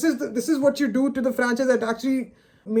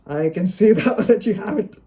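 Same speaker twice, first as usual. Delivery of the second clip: laughing through disappointment; bitter laugh. Real, not acted. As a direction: let a rueful laugh break into the words. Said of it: "I can only do nothing but laugh".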